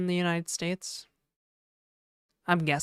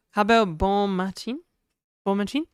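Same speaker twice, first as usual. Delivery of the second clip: mock French accent; 3 dB louder than usual. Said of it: "my terrible French accent".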